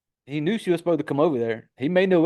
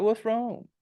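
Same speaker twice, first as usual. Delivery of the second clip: stupid-sounding question; 7 semitones higher, 4 dB quieter than usual. Retold or imitated. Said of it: "stupid the way he said it".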